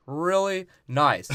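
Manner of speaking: really nice drawn out slowly; slow, pointed. Shown as a demonstration. Repeating to the director, slow and pointed. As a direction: stretch the words for pointed emphasis. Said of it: "it would be really nice".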